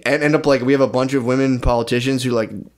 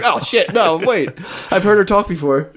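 mock surprise; 6 semitones higher than usual. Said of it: "I was like".

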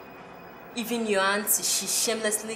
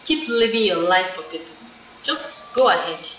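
angry scolding; 6 dB louder than usual. Acted. Friend scolding her.

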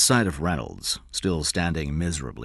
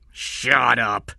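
loud, raised command; angry shout; 6 semitones higher, 6 dB louder than usual. A narrator's reading. Cy silences the protesting boy, shouting. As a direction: cut the boy off forcefully. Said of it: "Cy shouted".

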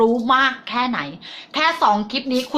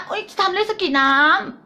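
mocking friend; 9 semitones higher than usual. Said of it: "โมเมนต์แบบ".

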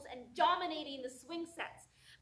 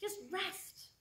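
high, slow, drawn-out urging; depression's lingering plea; 8 semitones higher, 4 dB louder, much slower than usual. Acted. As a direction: coax slowly, easing off in volume by the end. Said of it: "And the depression says".

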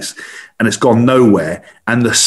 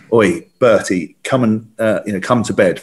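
calling the dog; 3 semitones lower than usual. Retold or imitated. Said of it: "and I went".

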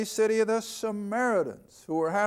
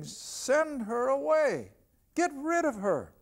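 higher, slow, insistent plea; disciples urging; 6 semitones higher, slower than usual. Acted. Disciples pleading with their Lord, higher and slow. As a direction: press him to send her off, higher and drawn out.

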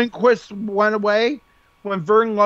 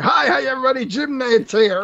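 lively announcer; 4 semitones higher than usual. Retold or imitated. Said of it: "how lively he is when he does college basketball".

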